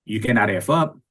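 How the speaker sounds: put-on stern Haitian Creole accent, drill-sergeant firm; Creole military voice. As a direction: bark it like a Haitian military father. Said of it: "in his most Creole and military voice".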